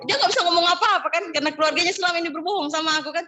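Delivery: fired-up retelling. Real, not acted. Heated retelling of family's lies.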